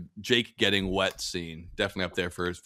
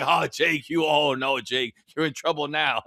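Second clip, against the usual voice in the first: teasing mock concern, slightly raised pitch; Denzel Washington; 4 semitones higher than usual. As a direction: relish the rookie's trouble, lightly imitated. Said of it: "Denzel just loving it".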